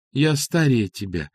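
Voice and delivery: plain reading voice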